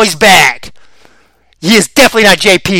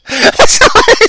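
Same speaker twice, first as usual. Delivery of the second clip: high laugh. Real, not acted. Laughs again.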